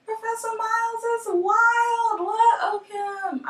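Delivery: put-on high, sing-song valley girl chatter; gossipy friend voice. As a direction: gush like a giddy college friend. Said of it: "you guys are talking like".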